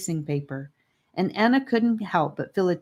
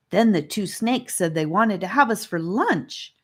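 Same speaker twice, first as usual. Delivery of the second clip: melodramatic; 3 semitones higher than usual. Acted. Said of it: "she said melodramatically".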